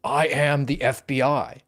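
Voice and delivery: slow, lightly voiced Keanu Reeves quote; Keanu Reeves line. Cohost answering the host with Keanu Reeves' line, slowly. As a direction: drawl it out like the famous movie line. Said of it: "What did he say".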